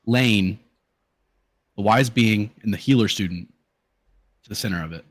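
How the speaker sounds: measured game master narration with weighty pauses; dramatic scene setting. Acted. Game master tells players of the boss's arrival, dramatic narration. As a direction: unfold the boss's entrance phrase by phrase.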